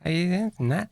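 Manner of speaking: high, bubbly VTuber voice; chirpy streamer greeting chat; cute anime streamer. Pretend. Streamer does VTuber imitation.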